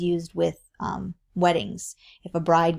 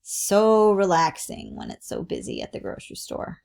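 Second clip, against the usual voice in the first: sarcastic emphasis on "So relaxing"; demonstrated sarcastic tone. Shown as a demonstration. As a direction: pretend it was relaxing, meaning the opposite. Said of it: "there's a tone that goes with it".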